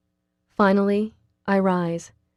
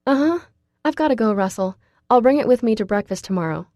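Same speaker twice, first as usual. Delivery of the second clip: quick; 4 semitones higher, 4 dB louder, faster than usual. Acted. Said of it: "I answer him quickly".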